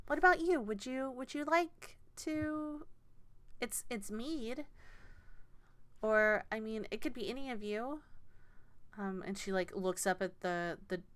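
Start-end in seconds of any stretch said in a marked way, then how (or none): 0.1-8.0 a hint of a flustered gnome organiser; gnomish woman. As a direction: reassure the judge nervously, a bit higher. Gnomish woman asks Relier.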